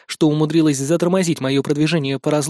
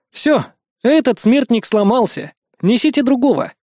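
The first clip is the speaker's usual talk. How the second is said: lightly voiced overseer; 7 semitones higher than usual.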